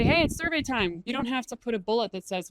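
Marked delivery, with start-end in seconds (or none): 0.0-1.0 cheerful. Shown as a demonstration. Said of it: "just say".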